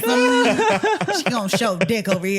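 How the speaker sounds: high, hammed-up hip hop girl; mock party girl. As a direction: tease like a girl rapping at a guy.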